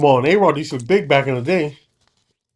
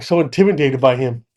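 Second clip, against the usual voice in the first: normal talking voice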